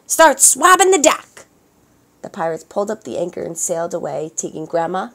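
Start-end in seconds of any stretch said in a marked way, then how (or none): 0.1-1.5 gruff orders. A narrator's reading. Boss pirate orders Melissa.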